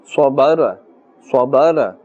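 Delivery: swabara with an extra short vowel after the r; ra wrongly stretched. Shown as a demonstration. Teacher shows learners the mistake, ra stretched into swabara. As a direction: say swabara, letting the r open into an added "a". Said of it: "Try not to stretch the sound of the ra".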